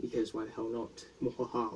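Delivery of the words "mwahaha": quiet villain cackle; soft mwahaha; evil laugh. Acted. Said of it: "once again".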